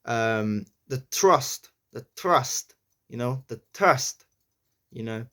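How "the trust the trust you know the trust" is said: "trust" with the T tapped off the roof of the mouth; New York "trust", tongue tip hitting the T. Shown as a demonstration. Accent learner demonstrating the T's, "trust" with tongue-tip T. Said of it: "the tip of the tongue".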